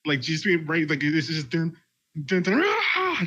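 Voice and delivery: rising dun dun into a yell; mock scream. Shown as a demonstration. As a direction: build to a sudden scream. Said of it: "just a loud ass scream".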